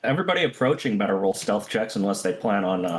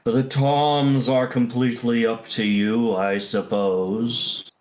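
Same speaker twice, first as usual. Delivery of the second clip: booming voice. Acted. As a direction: boom it out like a big creature. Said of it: "its booming voice says".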